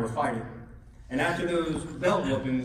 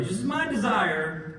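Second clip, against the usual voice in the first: mild, slightly drawn-out polite wish; passive wish; 4 semitones higher than usual. Retold or imitated. Dad's inscription to his son, understated passive wish. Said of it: "pretty passive".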